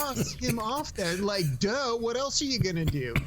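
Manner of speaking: lightly voiced bored owner; mock deadpan owner. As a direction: act out how obvious it is. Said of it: "the way she delivers that".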